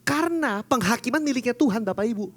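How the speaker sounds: high, loud rising preacher's cry; full-force preaching. Real, not acted. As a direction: preach it with fire. (khotbah berapi-api, lebih tinggi dan keras)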